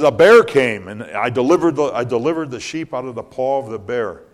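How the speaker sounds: David recounting his feat, mildly acted; young David boasting. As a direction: tell the bear story with swagger. David tells of the bear.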